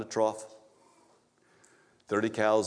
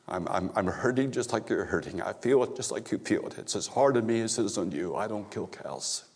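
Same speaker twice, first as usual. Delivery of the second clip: voice of God; 2 semitones lower, 4 dB quieter than usual. Retold or imitated. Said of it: "I heard this".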